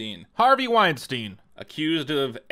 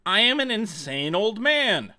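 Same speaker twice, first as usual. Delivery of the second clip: mock crazy old man; 4 semitones higher than usual. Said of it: "act like a crazy old man".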